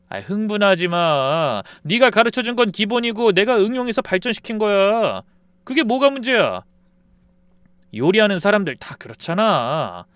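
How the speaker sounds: high, dismissive and condescending; smug brush-off. Acted. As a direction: talk down to him. Friend brushing off accusation.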